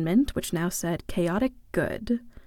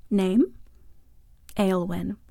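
usual speaking voice

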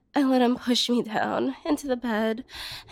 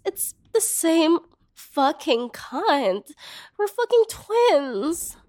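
jealous outrage; 4 semitones higher, slower than usual. Acted. Betrayed twin railing about her sister to the brother, slow and outraged. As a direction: drag the words out, then break into a high, outraged wail.

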